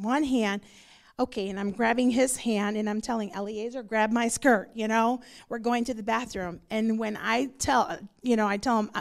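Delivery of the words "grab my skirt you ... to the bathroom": ordinary talk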